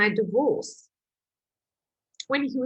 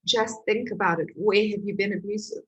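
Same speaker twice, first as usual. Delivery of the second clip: gentle; 4 dB quieter than usual. Retold or imitated. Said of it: "he very gently".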